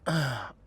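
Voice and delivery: brief audible sigh; a small, sighed-out breath; short sigh. Acted. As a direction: let out a quick breath before speaking. Reacting to the target's hotel.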